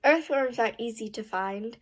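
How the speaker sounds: "find" tips upward a little; slight rising end. Real, not acted. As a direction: end on "find" with a small questioning lift. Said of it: "A little bit".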